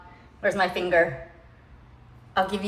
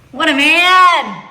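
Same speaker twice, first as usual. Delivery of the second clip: admiring; 8 semitones higher, 7 dB louder, slower than usual. Real, not acted. Admiring husband's rat removal.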